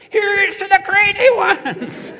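high, slow, laughing shriek of the line; Phyllis Diller scream. Retold or imitated. Voiceover actress shrieking the line again in a Phyllis Diller voice. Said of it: "the identical read three times in a row".

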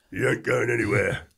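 a hint of a big bouncer standing firm; menacing bouncer. Bouncer Lloyd blocks the way.

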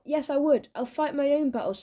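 heated retort in a quarrel; defiant shout. A narrator's reading. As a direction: insist hotly on standing up for yourself. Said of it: "shouted Bob".

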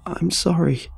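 high, panicked blurted apology. Acted. Facing the giant deer, frightened blurted sorry. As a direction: blurt it out in fear. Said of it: "I blurted".

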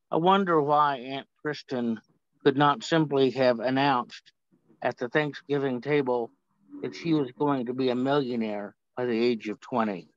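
measured reading with long pauses; poem reading. Acted. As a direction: read it out deliberately, phrase by phrase. Reads own poem aloud.

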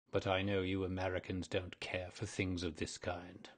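lightly voiced old ghost, put out; a hint of an aggrieved old ghost. Ghost to Virginia, a touch aggrieved.

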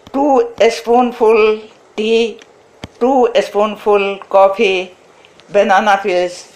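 ordinary delivery

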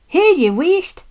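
high-pitched stern scolding; severe. A narrator's reading. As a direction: cut them off severely. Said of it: "said Donald severely".

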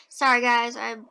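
talking through a mouthful of popcorn; munching popcorn. Real, not acted. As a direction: speak around a bite of popcorn. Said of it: "I'm eating popcorn".

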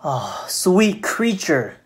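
slow, lightly acted spider's flattery; a hint of a wheedling spider; flattering spider. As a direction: draw it out to sweet-talk the fly.

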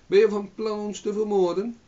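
high, shrill yell of rage; shrieking. A narrator's reading. Old hag shrieking at the farmer in rage. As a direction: screech at him furiously. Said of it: "schreeuwde de schraapster".

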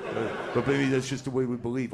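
put-on comic Hasidic accent, protesting; Hasidic Jewish accent. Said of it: "how are you even writing in this accent".

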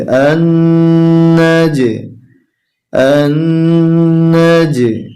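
আন না যে with the জ bounced out in a light echoing qalqala; qalqala bounce. Shown as a demonstration. Teacher showing students how to bounce the letter, qalqala. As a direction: let the যে pop and echo, Quran-lesson style. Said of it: "তাই কলকলা করে উচ্চারণ করতে হবে".

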